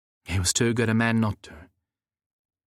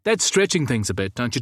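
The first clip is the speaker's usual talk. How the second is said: protesting; 4 semitones higher than usual. Acted. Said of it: "Nick protested".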